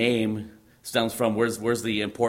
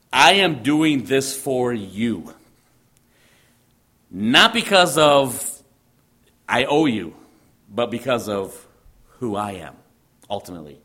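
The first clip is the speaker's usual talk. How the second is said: God's solemn promise; 5 dB louder than usual. Retold or imitated. God speaking the royal grant.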